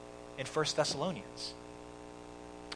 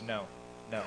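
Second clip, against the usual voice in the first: retold measured reply; 4 semitones lower, 6 dB quieter than usual. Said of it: "Branch Rickey's response is great".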